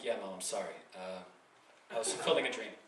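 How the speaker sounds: low, soft apology; subdued, embarrassed mumble; sheepish confession. Acted. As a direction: confess meekly to your mother. Sheepish confession to his mother.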